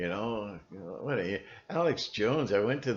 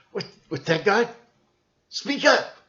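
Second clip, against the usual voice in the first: high, loud yell at God; mock preacher yelling; 11 semitones higher, 7 dB louder than usual. Imitating Richard Roberts yelling at God, hammed-up. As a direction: shout up at heaven like a showman preacher. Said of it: "He's yelling at God to speak up".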